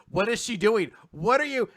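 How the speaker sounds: loud, rising mock disbelief; alarmed bafflement. Recapper acts the boy's bewildered thoughts, mock alarm. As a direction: build into flustered alarm. Boy baffled by girl's actions.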